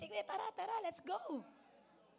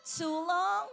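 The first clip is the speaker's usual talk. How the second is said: louder mock call for help; raised, questioning shout; cry for help; 7 dB louder than usual. Shown as a demonstration. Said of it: "Paano ka humingi ng tulong?".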